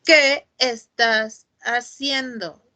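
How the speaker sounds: slow, drawn-out sarcastic question; mock them slowly with the question; slow sarcastic ¿Qué estás haciendo?. Shown as a demonstration. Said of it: "es una sarcástica".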